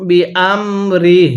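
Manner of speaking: বিআমরিহ ending in a silent h at the pause; pausal stop. Shown as a demonstration. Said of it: "জেরকে বাদ যাবে".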